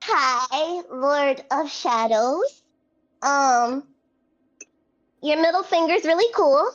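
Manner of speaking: hesitant, drawn-out polite hello; timid greeting. Acted. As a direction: awkwardly greet an intimidating lord. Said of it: "Calliope's just gonna curtsy".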